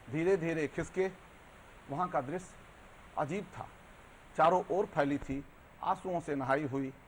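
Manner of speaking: measured Hindi verse with deliberate pauses; poetry recitation. Acted. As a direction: recite line by line, letting each phrase hang. Recites own poem to the host. (ठहर-ठहर कर कविता पाठ)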